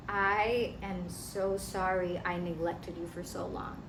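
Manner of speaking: put-on soft, subdued apology to the inner child; tender apology. Speaker apologizing to a neglected inner child, soft apology. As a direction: say sorry softly, as if to a hurt child.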